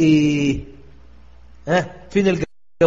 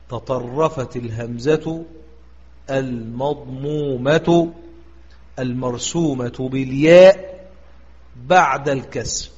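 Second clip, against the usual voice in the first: إملاء بطيء؛ يقرأ القاعدة ببطء وتأنٍّ؛ قلها كلمة كلمة للحفظ؛ إملاء الضابط ببطء للطلاب; 2 semitones lower, slower than usual. Shown as a demonstration. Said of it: "ما ضابط هذا الباب؟".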